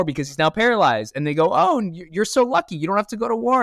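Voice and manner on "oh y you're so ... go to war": much higher, gushing neighbour voice; hammed-up imitation of excited neighbours; mock envy. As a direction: exclaim like a jealous villager. Neighbours envy him escaping draft.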